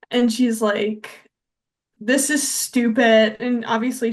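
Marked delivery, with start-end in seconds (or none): 2.0-3.4 slow, louder mock indignation; emphatic imitation of someone angry; retold anger. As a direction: act out her fed-up anger, slowly. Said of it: "she gets, like, really angry about it".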